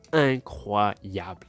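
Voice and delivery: "Incroyable" stretched very slowly; drawn-out mock awe. Presenting his Team Shadow building, stretched slow mock awe.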